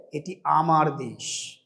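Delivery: low, soft and slow; soft proud quote. Retold or imitated. Poorest citizen quoted saying this is his country, softly. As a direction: say it hushed, with quiet pride.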